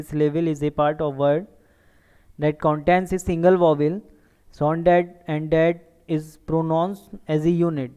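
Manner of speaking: very slow, word by word definition; slow dictation. Shown as a demonstration. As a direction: read the definition slowly for students to write down. (परिभाषा धीरे-धीरे लिखवाना)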